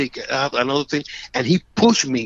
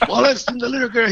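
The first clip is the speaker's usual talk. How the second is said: accusing cop; 10 semitones higher, faster than usual. Retold or imitated. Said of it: "he say".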